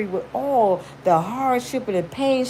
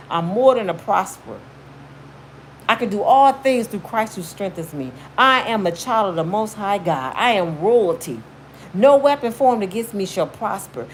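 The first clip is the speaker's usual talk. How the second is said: affirmation demo. Shown as a demonstration. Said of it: "talk to your inner self".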